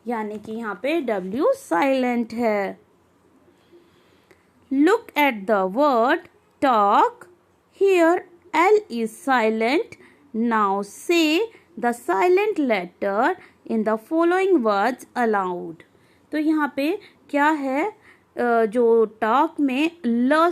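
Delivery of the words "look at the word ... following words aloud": very slow, word by word; slow textbook reading. Acted. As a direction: read it out slowly for the class. Reads exercise instructions. (धीमे-धीमे पाठ पढ़ना)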